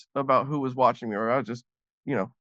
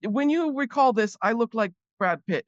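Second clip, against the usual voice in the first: awkward flirt; 6 semitones higher than usual. Retold or imitated. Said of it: "I said".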